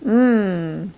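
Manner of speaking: Mm as a long hum; drawn-out, savouring Mm; delicious mm. Shown as a demonstration. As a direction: hum Mm as if tasting something delicious. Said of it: "what we say when something is super delicious".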